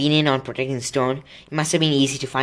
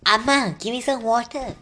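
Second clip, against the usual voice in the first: high-pitched call to mother; 11 semitones higher than usual. Retold or imitated. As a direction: re-enact shouting for your mum. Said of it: "shouted for my mother".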